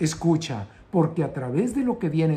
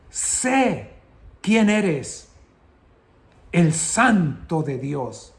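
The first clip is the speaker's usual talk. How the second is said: acted demon's cry; 3 dB louder, much slower than usual. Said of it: "¿Quién está dando voces, gritando". (grito dramatizado del demonio, pausado)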